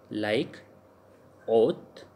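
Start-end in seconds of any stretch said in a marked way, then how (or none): 1.5-2.0 "oath," starting on a pure O, no H; silent H. Shown as a demonstration. Teacher shows learners a French word, silent H in "oath,". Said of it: "H is the silent".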